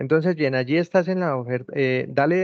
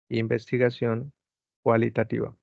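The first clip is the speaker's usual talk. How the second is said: slow dictation. Shown as a demonstration. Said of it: "Escríbele investigación cualitativa".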